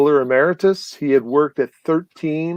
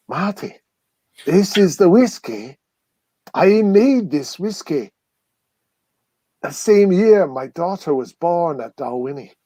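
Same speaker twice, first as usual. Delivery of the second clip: choked up; 4 semitones higher than usual. Retold or imitated. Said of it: "started getting all kind of choked up".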